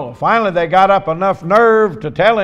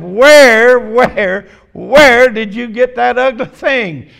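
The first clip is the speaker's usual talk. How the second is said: high, loud, drawn-out gawking question; mock astonished stranger; 5 semitones higher, 7 dB louder, slower than usual. Stranger at McDonald's gawks at the parrot, loud and high.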